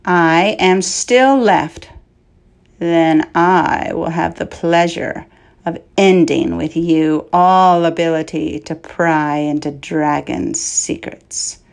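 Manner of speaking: a dragon gloating over the last of a race; menacing dragon. Acted. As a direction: promise his end with relish. Dragon threatens the knight.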